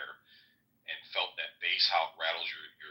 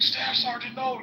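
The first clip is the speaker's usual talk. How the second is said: mock panicked cry, much higher and louder; panicked yell; 4 dB louder than usual. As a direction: yell it like your sergeant's been shot. Sergeant thinks staff sergeant hit.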